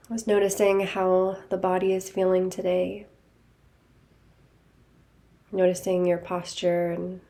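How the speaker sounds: calm, even guiding voice with long pauses; guided meditation. Real, not acted. Teacher leading listeners to notice body and breath, guided meditation. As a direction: guide them gently inward, leaving space after each phrase.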